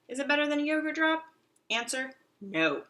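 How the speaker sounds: high, loud quick question; cheeky hamster riddle; playful riddle. Acted. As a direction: tease then answer. Quiz self again.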